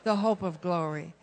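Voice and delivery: loud proclamation. Real, not acted. Preacher declaring to the cheering crowd, loud and triumphant.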